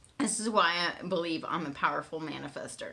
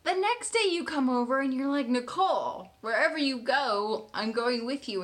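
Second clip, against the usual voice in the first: higher, thrilled storytelling; bubbling with excitement; excited retelling; 6 semitones higher than usual. Real, not acted.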